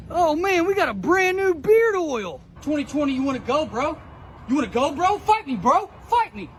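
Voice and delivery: fake tough guy swagger. Mock bro voice roasting cars.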